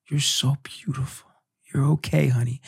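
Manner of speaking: tender whisper. Retold or imitated. Father whispering to wife after birth, hushed tender whisper. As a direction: breathe the words gently. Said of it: "I just remember being like".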